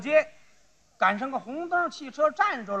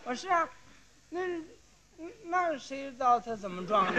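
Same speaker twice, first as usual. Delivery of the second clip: flustered stalling; 5 dB quieter than usual. Acted. Cyclist's story falls apart.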